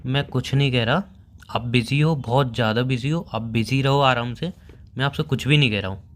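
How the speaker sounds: sulky backing off. Acted. Boyfriend tells girlfriend to stay busy, sulky. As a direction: withdraw from the argument, voice dropped. Boyfriend backs off sulkily mid-quarrel.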